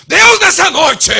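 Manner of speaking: mock the pompous church prayer tone; put-on prayer voice. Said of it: "a gente muda o tom de voz pra falar com Deus".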